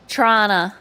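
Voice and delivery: "Toronto" said "Tranna", T dropped; "Toronto" clipped to two syllables, Tranna. Shown as a demonstration. Streamer demoing the local "Toronto" for chat: Tranna. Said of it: "It's a ch".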